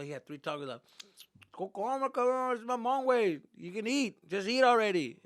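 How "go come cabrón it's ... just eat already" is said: high, loud nagging parent imitation; insistent parent. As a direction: urge a stubborn son to eat. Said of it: "my dad didn't give a fuck".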